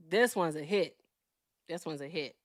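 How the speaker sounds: trying out a Boston accent; lightly attempted Boston speech. Shown as a demonstration. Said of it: "You wanna hear my Boston accent?".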